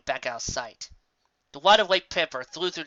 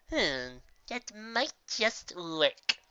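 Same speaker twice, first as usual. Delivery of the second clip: contemplative; 6 semitones higher, 5 dB quieter, much slower than usual. Acted. Trixie pondering, hoof to chin.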